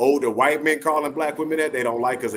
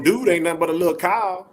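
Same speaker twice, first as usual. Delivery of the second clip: mock explanation; 7 semitones higher, 4 dB louder than usual. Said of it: "I told him".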